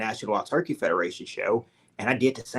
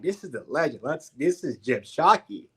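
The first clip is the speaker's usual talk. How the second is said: starstruck; 3 semitones higher than usual. Retold or imitated. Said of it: "but I'm freaking out".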